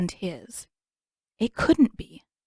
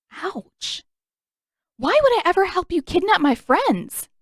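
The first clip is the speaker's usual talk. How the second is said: scornful Katara; 10 semitones higher, 5 dB louder than usual. Acted. Katara scoffs at Zuko.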